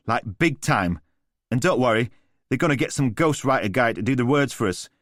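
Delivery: lightly voiced swaggering London geezer; breezy street-slang charm; cocky London lad. Alistair winding up his stunned brother, as a lightly voiced cocky London lad.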